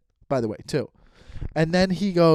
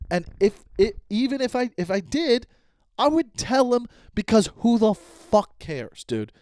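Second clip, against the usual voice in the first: higher, strained-up frustrated outburst; real exasperation; 6 semitones higher than usual. Real, not acted. Venting about a friend's accusation, exasperated and raised. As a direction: vent it, fed up with the accusation.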